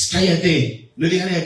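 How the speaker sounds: mild retold shushing, sharp first word; hushing someone. Preacher voicing the crowd silencing blind Bartimeo, hushing. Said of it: "la gente lo callaba".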